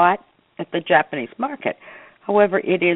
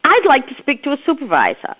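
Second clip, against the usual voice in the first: retold angry complaint; 10 semitones higher, 5 dB louder than usual. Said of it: "I said".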